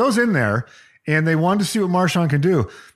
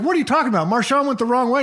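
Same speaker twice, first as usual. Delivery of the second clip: retold coach outburst; 8 semitones higher, much faster than usual. Coach yelling at Marshawn.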